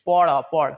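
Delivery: পড়া with final vowel, then পড় stopped on the consonant; pronunciation demo. Shown as a demonstration. Teacher shows students how the word sounds, pronunciation demo. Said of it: "উচ্চারণ কি হবে".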